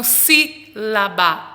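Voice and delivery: sílaba split up with the first syllable, sí, stressed. Shown as a demonstration. Teacher shows the antepenultimate syllable, sílaba stressed on sí. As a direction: sound out sílaba piece by piece, leaning on sí.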